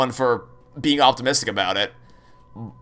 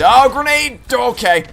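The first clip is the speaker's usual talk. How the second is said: high, loud sudden alarm; startled shout; 10 semitones higher, 6 dB louder, slower than usual. Real, not acted. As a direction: react to a sudden grenade. Grenade in game.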